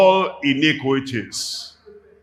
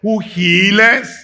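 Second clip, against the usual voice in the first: preaching; 5 semitones higher than usual. Acted. Preacher proclaims healing.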